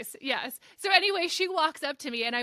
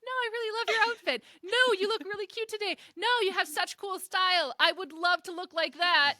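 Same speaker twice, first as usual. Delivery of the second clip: gushing compliments; 6 semitones higher than usual. Retold or imitated. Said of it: "if I could have just said".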